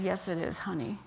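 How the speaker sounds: soft, understated tender reply; gentle reassurance. Retold or imitated. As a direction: answer a confused loved one quietly. Husband gently answers his confused wife.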